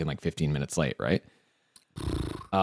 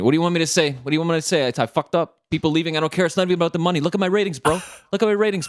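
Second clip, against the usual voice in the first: high, pushed ranting owner; manic ranting owner; 8 semitones higher, faster than usual. Retold or imitated. Owner venting to diners about his ratings, high manic rant. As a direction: rant like a boss at his wit's end. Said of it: "come back swearing".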